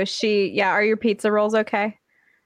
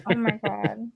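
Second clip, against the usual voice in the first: a touch choked up, softer, genuinely moved; real tears rising, voice pulling back; close to tears; 4 dB quieter than usual. Real, not acted. Birthday friend overwhelmed by kind words, near tears. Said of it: "I'm gonna fucking cry".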